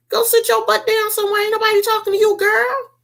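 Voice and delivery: squealing high clapback; sassy shut up. Retold or imitated. Telling Karen off.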